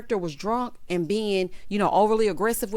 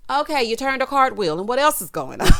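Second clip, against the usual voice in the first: loud, high, laughter taking over; mocking, breaking up; 5 semitones higher, 6 dB louder than usual. Real, not acted. Host mocks his cartwheel, breaking into laughter. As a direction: push it out loudly until laughter bursts.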